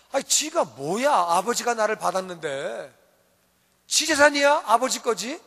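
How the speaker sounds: indignant, challenging younger brother; mildly hammed-up "who does he think he is"; acted resentment. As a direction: bristle at a sibling's interference. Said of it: "그럼 화가 나는 거예요".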